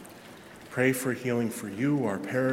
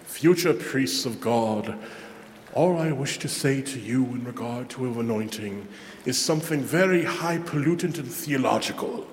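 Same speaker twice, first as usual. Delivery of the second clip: put-on British accent. Eamon Duffy addressing future priests, in a light British accent. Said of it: "he said in his British accent".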